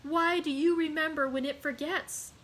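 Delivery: Mercédès crying out in anguish. Acted. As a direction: hurl the questions at him. Mercedes cries out.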